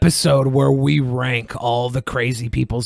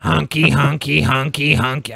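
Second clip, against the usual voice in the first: robot voice. Pretend. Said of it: "I can't even do the robot voice".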